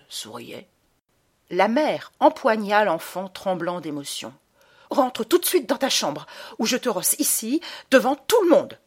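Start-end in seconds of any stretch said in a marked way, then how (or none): 4.9-8.8 strangled voice. A narrator's reading. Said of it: "d'une voix étranglée".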